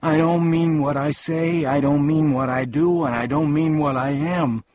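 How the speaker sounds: high, loud tearful wail; hysterical crying. A narrator's reading. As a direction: wail it like a found-out little creature. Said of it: "crying hysterically".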